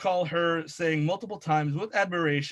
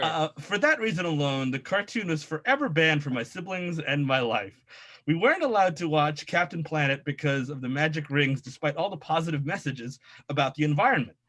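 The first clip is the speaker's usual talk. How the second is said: low nasal nerd impression; 3 semitones lower, faster than usual. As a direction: read it as a nerd. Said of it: "I'll do my nerd voice the entire time".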